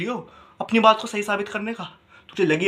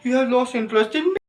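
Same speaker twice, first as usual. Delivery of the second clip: higher, hurt-girlfriend imitation; mock a partner's wounded accusation; put-on plaintive female voice; complaining girlfriend; 4 semitones higher than usual. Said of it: "इसका जवाब उनको भी दो".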